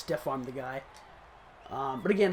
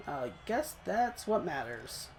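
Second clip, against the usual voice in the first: softer, slower, half to himself; resigned mutter; 6 dB quieter, slower than usual. Real, not acted. Gamer consoling himself after missing a sack, slow quiet mutter. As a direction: settle for it quietly, slowly.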